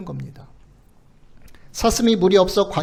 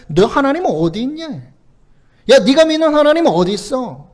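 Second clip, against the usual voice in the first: raised, louder mock challenge; mocking taunt; 4 semitones higher, 5 dB louder than usual. Enemies taunting the believer about God, mock jeering. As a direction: imitate scoffers taunting, higher and pushed. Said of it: "라고 비웃는 거예요".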